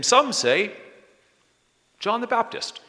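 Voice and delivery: high, loud, eager reply; eager answer. Acted. Disciples eagerly answering Jesus, voice pitched high.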